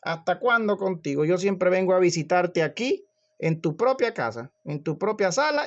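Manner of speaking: plead, then build to exasperation; exasperated reproach. Acted. The Lord answers busy Martha in her house, exasperated reproach. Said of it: "¿qué le respondió el Señor?".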